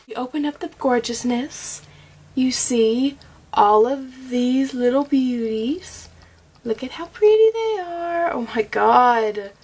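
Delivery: slow, awed gushing over the shades. Real, not acted. Vlogger gushing at the open palette. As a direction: let the pretty colors take your breath.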